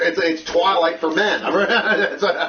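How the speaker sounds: chuckling through the words; laughing while talking. Real, not acted. Joking about the movie.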